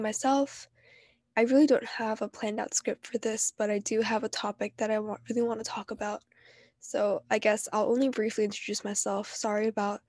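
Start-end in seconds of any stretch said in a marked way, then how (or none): 1.4-9.3 stuffy, nasal allergy voice. Real, not acted. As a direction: talk through a blocked nose. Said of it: "Sorry about my nasally voice 'cause I have really bad allergies".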